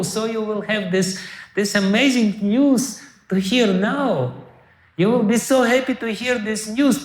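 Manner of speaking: high, bright-eyed rush of good news; excited nurse. Retold or imitated. Nurse to the maid, bursting with joyful news. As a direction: gush the news like a delighted nurse.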